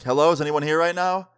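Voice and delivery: retold calling out. Storyteller calling into friend's apartment, retold mild yell. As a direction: call into an empty place, half-heartedly. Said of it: "I yell out".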